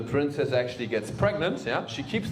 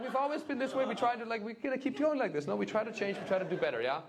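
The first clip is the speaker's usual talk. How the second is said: mocking German voice; 9 semitones higher, 10 dB quieter than usual. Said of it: "Imagine we Germans were like".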